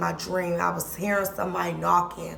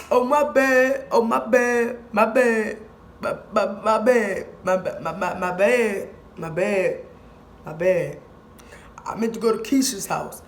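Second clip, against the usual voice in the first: apologetic stranger. Retold or imitated. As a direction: stammer out sorry over and over.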